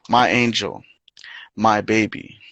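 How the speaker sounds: poetry reading. Acted. Reads mother-daughter poem.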